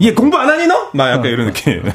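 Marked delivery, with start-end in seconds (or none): 0.0-0.9 high-pitched mock parental nagging; scolding parent. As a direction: nag a kid off the phone, pitched way up. 엿듣던 부모가 꾸짖는 흉내. (높은 목소리로 잔소리하는 부모 흉내)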